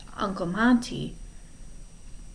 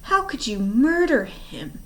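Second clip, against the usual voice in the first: high, pained hoarse whisper; 8 semitones higher than usual. Acted. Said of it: "Klaus whispered hoarsely".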